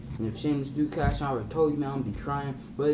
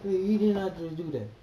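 disbelief; 7 semitones higher than usual. Retold or imitated. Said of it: "I was like".

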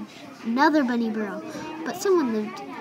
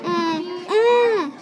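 higher, louder mock baby cry; 6 semitones higher, 5 dB louder than usual. A narrator's reading. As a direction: imitate a baby's fussy bleats. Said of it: "Ella cried".

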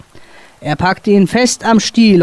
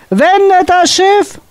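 high, slow shouted order; desperate command; 13 semitones higher, slower than usual. A narrator's reading. Captain orders the crew to turn ship. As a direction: bellow it over the storm.

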